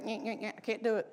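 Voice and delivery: high, whiny mock frustration; frustrated whine. Preacher mimics Abraham failing to cut the birds, high whiny frustration. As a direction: whine like a man fumbling with birds. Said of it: "He was like".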